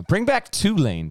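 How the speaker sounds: put-on high, drawn-out "Tulane" in a teasing Memphis accent; imitated Memphis accent. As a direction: stretch "Tulane" slowly, mimicking a co-host's Memphis accent. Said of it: "it's just your accent".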